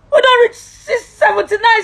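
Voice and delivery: real sobbing outburst; crying out. Real, not acted. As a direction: cry the numbers out. Crying, higher and louder.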